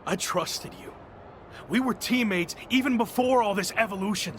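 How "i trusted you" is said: softer, breathless hurt; hurt hush. Acted. Betrayed champion to his former partner, quiet hurt. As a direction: let it fall to a near whisper.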